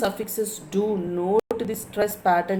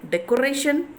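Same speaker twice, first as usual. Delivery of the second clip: decoration with a higher, stressed RATION; 5 semitones higher than usual. Shown as a demonstration. Teacher showing students the stress, decoration with RATION lifted. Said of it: "ration is stressing".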